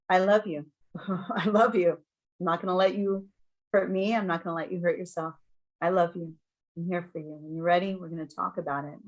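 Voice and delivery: retold gentle reassurance; calming. Parent holding a child who lashes out, calming. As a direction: soothe a struggling child, understated. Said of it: "calming things".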